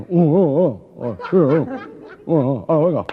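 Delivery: loud, garbled grunting mayor; mayor eating a sandwich. Acted. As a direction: grunt the words out loudly round a mouthful. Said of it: "se estaba comiendo un bocadillo de chorizo".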